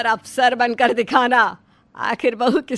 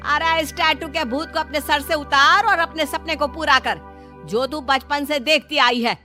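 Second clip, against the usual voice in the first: mother-in-law's stern lecture; exasperated nagging, not shouted; flaring up. Acted. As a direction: scold her with a touch of anger. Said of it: "ज्यादा भड़क जाती है".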